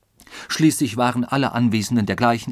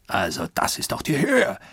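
a mild roar of outrage, a bit higher; mildes Brüllen; 4 semitones higher than usual. A narrator's reading. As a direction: bellow in indignation, held back. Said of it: "brüllte Oberst Proctor". (gedämpft empörtes Brüllen)

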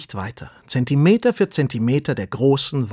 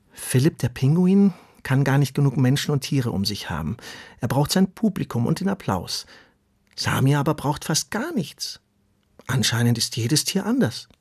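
put-on higher, earnest young worm voice; earthworm Ronny, pleading; 4 semitones higher than usual. Earthworm Ronny asks the tortoise to understand his wanderlust. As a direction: ask to be understood.

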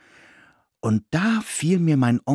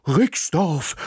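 higher, eagerly barked; excited bark; 6 semitones higher than usual. A narrator's reading. Ismir the dog echoes the village name with an excited bark. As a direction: bark the name back, thrilled. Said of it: "bellte Ismir aufgeregt".

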